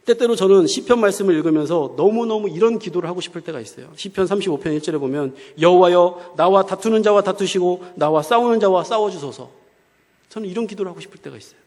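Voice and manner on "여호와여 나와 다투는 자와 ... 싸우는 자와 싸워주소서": loud, insistent plea to God; emphatic quoted prayer. Retold or imitated. Preacher quotes the psalm he longed to pray, emphatic plea. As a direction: call out the prayer forcefully.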